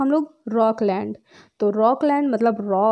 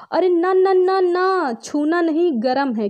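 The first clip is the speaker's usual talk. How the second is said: put-on warning a child; 6 semitones higher, slower than usual. Teacher voicing a parent stopping a child touching something hot, alarmed warning. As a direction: stop a little one reaching for something hot. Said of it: "आप क्या कहोगे?".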